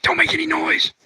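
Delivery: high, hushed urgency; hushed warning. Acted. Husband or wife hiding from the neighbor, hushed warning. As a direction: hush your partner in a small high voice. Couple hiding from unwanted visitor.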